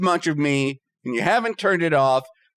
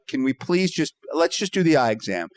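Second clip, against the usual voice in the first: lower, restrained polite request; very nicely; 7 semitones lower than usual. Retold or imitated. Patient asking the eye doctor to just do the exam, very nicely. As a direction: ask nicely, voice brought down. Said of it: "I say it very nicely".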